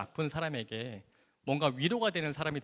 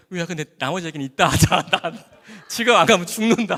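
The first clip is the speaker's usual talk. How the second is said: hurried call; 3 semitones higher, 10 dB louder than usual. Retold or imitated. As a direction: blurt it out while already running off. Rushing back to work, calling out. (일하러 급히 돌아가며 다급하게 외치듯)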